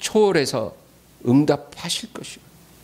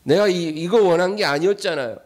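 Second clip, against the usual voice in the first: higher-pitched mock protest; 낙심한 원망; 5 semitones higher than usual. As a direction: act out a let-down believer complaining. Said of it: "금방 낙심해요". (낙심해서 높은 톤으로 항의하듯)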